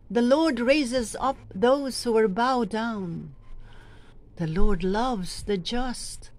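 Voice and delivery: measured, solemn liturgical reading of the psalm; psalm proclamation. Shown as a demonstration. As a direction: proclaim it to the congregation, steady and clear.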